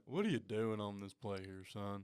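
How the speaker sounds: a hint of a deep, low line coach. Imitating the offensive line coach questioning a player, lightly deep. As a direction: drop into a low coach rumble. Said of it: "lowest voice in the room".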